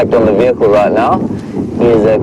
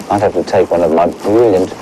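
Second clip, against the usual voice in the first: muffled by a zipped-up jacket; 3 semitones lower than usual. Real, not acted. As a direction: talk through a jacket collar. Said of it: "we're a bit muffled there".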